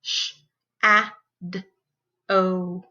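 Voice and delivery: SHADOW split into four sounds; sh... a... d... oh, separated; sounded out phonemes. Shown as a demonstration. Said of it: "breaking down those words into their sounds".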